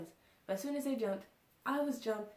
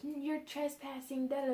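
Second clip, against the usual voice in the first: higher, drawn-out mock scolding; mild mock yell, pitched up; imitated yelling guard; 6 semitones higher than usual. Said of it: "they're, like, yelling at us".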